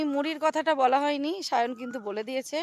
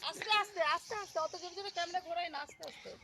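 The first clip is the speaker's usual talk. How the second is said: hushed; 5 semitones higher, 13 dB quieter, faster than usual. Real, not acted. Hushed warning to son filming.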